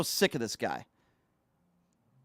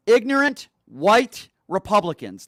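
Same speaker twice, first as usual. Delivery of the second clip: angry outburst; 3 semitones higher, 4 dB louder than usual. Real, not acted. Angry rant.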